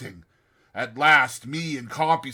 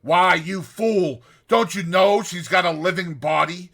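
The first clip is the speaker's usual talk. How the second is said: scornful; 5 semitones higher, 7 dB louder than usual. Retold or imitated. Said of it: "Says Compeyson".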